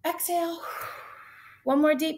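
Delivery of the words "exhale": calm breathing cue. Shown as a demonstration. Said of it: "take a nice deep breath".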